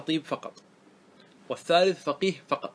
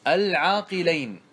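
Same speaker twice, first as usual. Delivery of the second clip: 1 slow example ending; 2 semitones higher, 3 dB louder, slower than usual. Shown as a demonstration. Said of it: "بأن تقول مثلًا".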